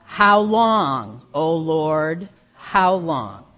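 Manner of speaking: said out loud with the congregation. Shown as a demonstration. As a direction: call it out together. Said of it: "Let's try that together".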